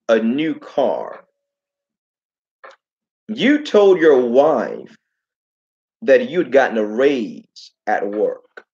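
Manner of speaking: slow, measured words like a stern prophet; solemn prophet rebuke. Retold or imitated. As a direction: lay out each sin slowly, weighty and accusing. Prophet rebukes a thief in church.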